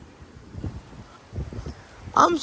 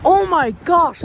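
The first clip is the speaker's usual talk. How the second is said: loud, high burst of amazement; excited exclamation; 4 semitones higher, 5 dB louder than usual. Real, not acted. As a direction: gasp it out, thrilled. Strong wind tears branch off.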